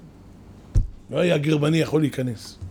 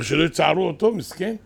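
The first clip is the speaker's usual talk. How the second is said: wrong pitying version; 3 semitones higher than usual. Shown as a demonstration. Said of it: "לא, לא, לא".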